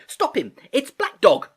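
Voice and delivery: high, urgent shout; crying out. A narrator's reading. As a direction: raise the alarm at the top of the voice. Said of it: "I cried".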